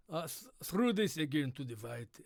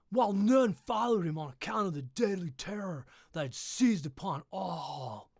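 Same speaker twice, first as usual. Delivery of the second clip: louder, higher, rising dramatic read; 4 semitones higher, 4 dB louder than usual. Acted. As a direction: build the tension as you read.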